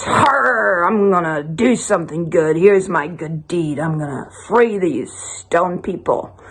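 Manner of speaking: long Harr, then a lightly voiced pirate; a hint of pirate. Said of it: "And the pirate goes".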